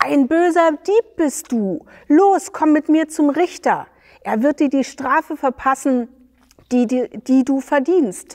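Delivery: high, loud, fast bellowing threat; sly roar. Acted. Dayan dragging his partner to the judge, roaring deceitfully. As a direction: roar at him like a scheming bully. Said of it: "brüllte der hinterlistige Dayan".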